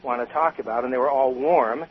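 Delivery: real disdain, lightly dismissive; disdainful. Real, not acted. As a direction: list them off with mild contempt. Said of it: "I can hear the disdain in your voice".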